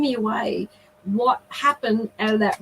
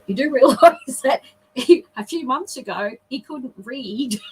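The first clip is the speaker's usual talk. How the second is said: laughing while retelling; 2 semitones higher than usual. Real, not acted. Laughs while retelling her remark.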